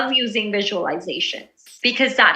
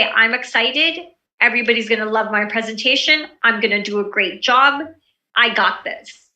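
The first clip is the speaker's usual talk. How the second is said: pep talk. Shown as a demonstration. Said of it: "give yourself a quick pep talk".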